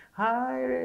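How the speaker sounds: hai ceria dan tinggi; sapaan ramah tiba-tiba. Retold or imitated. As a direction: menirukan ayah yang langsung baik lagi. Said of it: "itu berubah gitu". (ayah menyapa anak setelah marah, ceria)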